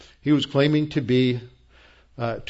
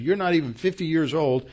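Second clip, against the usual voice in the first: higher, mock-incredulous Pharisee voice; preacher voicing scoffing Pharisees in disbelief; indignant Pharisees; 6 semitones higher than usual. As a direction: scoff at him in disbelief, pitched up. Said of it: "They're saying".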